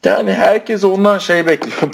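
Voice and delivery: words stretched through a yawn. Real, not acted. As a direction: talk mid-yawn, slow. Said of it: "Pardon, esnedim". (esneyerek konuşma)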